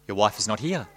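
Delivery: heightened dramatic narration; dramatic story reading. Acted. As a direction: read it like a gripping horror tale.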